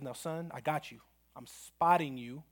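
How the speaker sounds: steady him with quiet reassurance; reassuring coach. Retold or imitated. Coach reassures under the bar.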